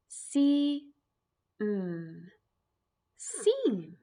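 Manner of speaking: drawn-out see, then a whispered seam; sounding out see to seam. Shown as a demonstration. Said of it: "put that sound on the end".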